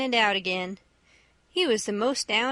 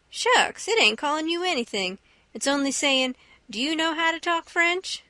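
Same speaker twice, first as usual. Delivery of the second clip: lightly voiced exasperated boy; mild, high-pitched impatience; Huck correcting Jim; 4 semitones higher than usual. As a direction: brush off the objection in a higher voice.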